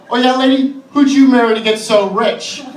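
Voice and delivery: retold petty challenge with some heat; angry and petty. Comic retells snapping at a richer woman, angry and petty. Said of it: "I got really angry and petty".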